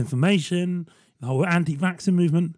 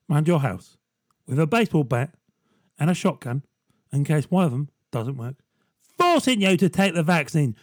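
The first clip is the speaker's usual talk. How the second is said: a light Michael Caine impression; a touch of gruff London old star. To the public about taking the vaccine, a lightly voiced Michael Caine. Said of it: "get Michael Caine to do it".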